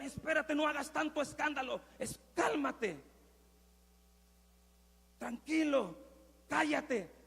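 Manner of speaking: firm but fairly polite shushing; mild hushing rebuke. Acted. Bystanders silencing the blind man, mildly firm rebuke. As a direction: tell a noisy man to settle down. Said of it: "lo estoy haciendo de una manera muy amable".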